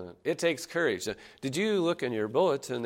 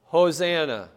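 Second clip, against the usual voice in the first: louder and higher Hosanna, leading the crowd; called-out Hosanna; 4 semitones higher, 6 dB louder than usual. Shown as a demonstration. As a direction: call out Hosanna for the congregation to repeat. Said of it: "say it with me together".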